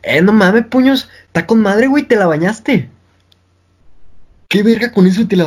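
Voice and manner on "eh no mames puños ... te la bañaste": put-on higher, sing-song Monterrey accent, slowing at the end; regio accent. Retelling a Monterrey guy's slang in a mock regio accent. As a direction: ham up a regio friend's slang. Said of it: "escuché a un regio un día, es como que te diga".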